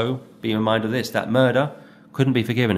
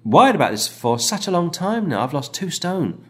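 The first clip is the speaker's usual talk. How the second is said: anxious caller; 4 semitones higher than usual. Retold or imitated. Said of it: "this guy said".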